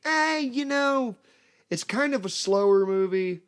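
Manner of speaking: high, drawn-out noncommittal hedge; hedging dad. Retold or imitated. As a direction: stall as you downplay it. Dad stalls, downplaying scary movie.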